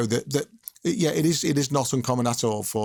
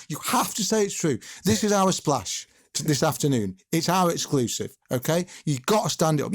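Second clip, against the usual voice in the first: retold pressing demand, higher pitched; insistent; 3 semitones higher than usual. Reporter pinning a manager down on his exclusive, insistent. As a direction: press each condition home firmly.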